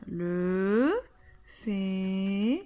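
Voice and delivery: féminin drawn out slowly; slow model word. Shown as a demonstration. Teacher modelling a word for pupils, slowly. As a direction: stretch out "féminin" so pupils hear it. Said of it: "teacher models word slowly".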